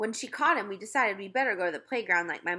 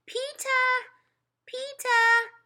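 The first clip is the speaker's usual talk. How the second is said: calling out; 7 dB louder, much slower than usual. Acted. Toddler calls from jungle gym.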